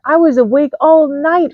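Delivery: mild snap at Badger; snapping. A narrator's reading. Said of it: "Fox snapped".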